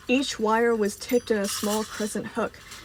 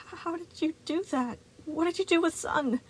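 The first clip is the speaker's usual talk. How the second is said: put-on high, alarmed child voice; high squeaky boy; 9 semitones higher than usual. A narrator's reading. Boy questions Moon about Sun in a high, alarmed squeak. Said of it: "Gregory squeaked out".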